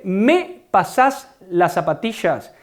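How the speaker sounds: slow Rioplatense "zapatillas" with sh for ll; Rioplatense accent. Shown as a demonstration. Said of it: "Ellos dicen". (acento rioplatense lento, "zapatillas" con sh)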